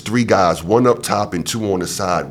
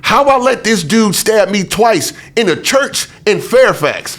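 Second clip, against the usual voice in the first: incredulous; 12 semitones higher, 4 dB louder than usual. Real, not acted. Laughing disbelief at own stabbing.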